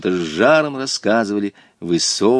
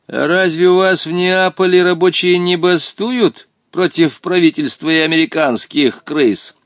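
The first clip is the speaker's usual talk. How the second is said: high, loud indignant challenge; angered; 8 semitones higher, 4 dB louder than usual. A narrator's reading. Local boy challenging a visitor from Naples, angered. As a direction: flare up at the outsider. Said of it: "Рассердился юный геронец".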